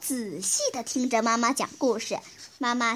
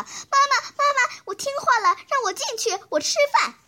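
put-on loud high child's shout; 10 semitones higher, 3 dB louder, faster than usual. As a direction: yell for mom to open up. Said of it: "于是小孩大声地喊道".

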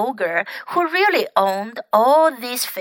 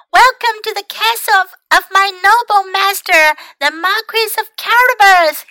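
high, loud grand announcement; proud welcoming cry; 10 semitones higher, 6 dB louder than usual. A narrator's reading. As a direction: announce the master with pride. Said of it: "he cried".

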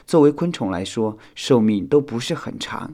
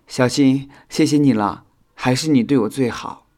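higher, grateful and smiling; smiling thanks; 4 semitones higher, 6 dB louder than usual. A narrator's reading. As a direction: thank a friend with a smile. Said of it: "修想笑着说道". (笑着道谢)

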